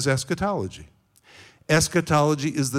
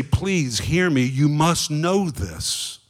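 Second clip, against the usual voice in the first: slow, insistent plea; urgent appeal; slower than usual. Acted. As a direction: press each word home slowly and earnestly. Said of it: "to shake us and say".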